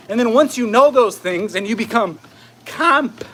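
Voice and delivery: breathless, walking fast on treadmill; out of breath while exercising. Real, not acted. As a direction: talk through heavy walking breaths. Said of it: "can't talk 'cause I'm walking so fast".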